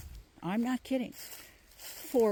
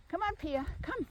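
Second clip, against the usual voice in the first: higher coaxing call to a dog; 8 semitones higher, 4 dB quieter than usual. Real, not acted. Owner calling her dog Pia along the trail, coaxing. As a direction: urge the little dog to keep up.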